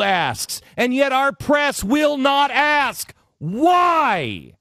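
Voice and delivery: rising, insistent demand, repeated why; passionate rant. Shown as a demonstration. Host demanding answers from the press, fired-up rant. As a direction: pound out every why like a crusade. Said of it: "How's that for passion?".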